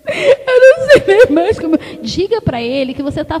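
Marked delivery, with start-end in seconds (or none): 0.1-1.8 half-laughing, half-crying complaint to the Lord; breaking into a laugh-cry at the end; frustrated plea to God; exasperated tearful prayer. Retold or imitated. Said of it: "Eu falei".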